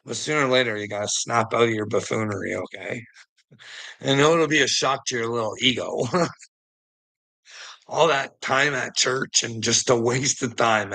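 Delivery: ordinary talk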